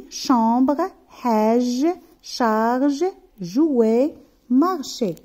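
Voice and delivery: "chambre, hège, charge, jouet, marché" one by one, hissed SH kept apart from buzzed ZH; distinct ch and j. Shown as a demonstration. Teacher showing pupils how the sounds differ in "chambre, hège, charge, jouet, marché", distinct ch and j. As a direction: read "chambre, hège, charge, jouet, marché" as separate words, each SH or ZH clearly articulated. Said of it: "la distinction ou bien la différence dans la prononciation".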